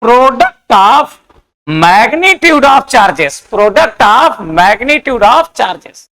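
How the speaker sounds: drawn-out, measured dictation with pauses; slow dictation. Acted. Teacher dictating Coulomb's law to the class, slow dictation. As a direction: dictate word by word, stretching each phrase.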